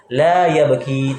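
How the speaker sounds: "la ya baki" with the ending vowel kept long; long final vowel. Shown as a demonstration. Teacher showing negation keeps its letter, long "i" in "baki". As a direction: hold the last "i" of "baki". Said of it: "tetap ada".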